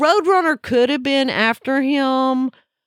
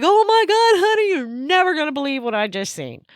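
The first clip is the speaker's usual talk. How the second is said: excited; 6 semitones higher than usual. Retold or imitated. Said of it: "And I was like".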